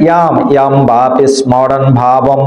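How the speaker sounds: "ইয়াম" with a y onset and closed m; "স্মরণ" with the sm cluster sounded; Sanskrit pronunciation. Shown as a demonstration. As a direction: recite "ইয়াম, ইয়াম" as yam yam, evenly. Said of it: "main উচ্চারণ কি হবে?".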